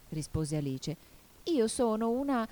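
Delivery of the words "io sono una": high, unfinished start falling off; begin, then break off unsure; hesitant. A narrator's reading. Alice tries to say what she is, hesitant. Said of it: "ma con qualche dubbio".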